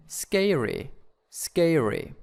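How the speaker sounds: "scary" stressed on SCA; stress demonstration. Shown as a demonstration. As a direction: lean on the first syllable of "scary", falling after it. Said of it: "Where is the stress".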